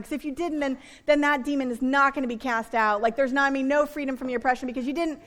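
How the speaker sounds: rapid-fire, run-on mock interrogation; hurried parody of a rule-obsessed preacher; mock nitpicking. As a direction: pile up fussy questions without stopping. Mimicking nitpicking prayer sermons.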